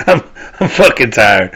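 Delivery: amused through the weariness; laughing. Real, not acted. Vlogger laughing at his own tiredness, amused. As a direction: let a laugh spill into it.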